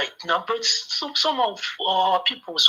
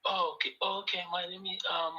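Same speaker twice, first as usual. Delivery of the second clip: quiet; 3 semitones higher, 9 dB quieter than usual. Real, not acted. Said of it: "Speak up, please".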